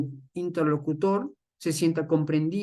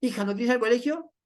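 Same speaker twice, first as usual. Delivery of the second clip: gentle father; 5 semitones higher, faster than usual. Acted. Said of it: "sí practica escucha activa".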